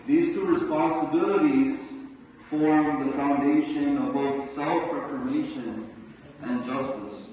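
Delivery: proclaimed out loud; a preacher raising his voice to a climax. Real, not acted. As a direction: ring it out to the hall. Peak of the argument.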